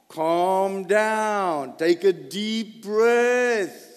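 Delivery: slow, soothing calm-down voice. Shown as a demonstration. Preacher calming a panicked family member, slow and soothing. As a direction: ease a panicking child down slowly.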